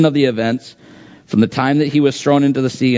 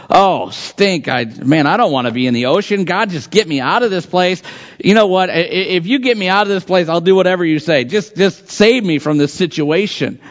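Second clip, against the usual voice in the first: mock panicked plea; 5 semitones higher than usual. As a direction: voice climbs high, pleading and rushed. Imagined panicked Jonah prayer.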